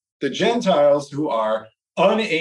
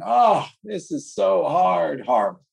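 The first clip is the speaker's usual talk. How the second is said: whiny tired dog. Acted. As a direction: drag it out like a worn-out dog complaining. Voicing the panting dog complaining.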